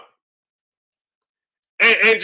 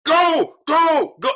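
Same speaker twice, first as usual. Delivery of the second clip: slow, pleading yell that climbs higher; screaming at the TV; 6 semitones higher, much slower than usual. Retold or imitated. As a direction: beg him to throw punches, voice cracking. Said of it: "I'm screaming at the T V".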